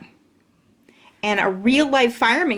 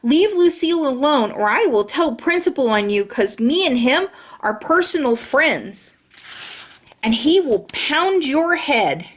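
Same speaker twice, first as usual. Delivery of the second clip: pitched-up threatening yell; 4 semitones higher than usual. Acted. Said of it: "I yelled".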